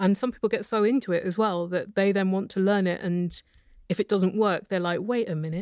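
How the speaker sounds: ordinary delivery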